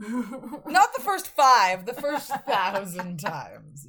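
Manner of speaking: slow, amused, stretching each word, teasing co-host while laughing; laughing emphasis. Real, not acted. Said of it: "laughing repeat".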